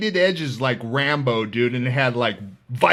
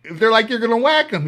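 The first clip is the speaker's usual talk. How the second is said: mocking guards; 9 semitones higher, 5 dB louder than usual. Guards refusing the inmate.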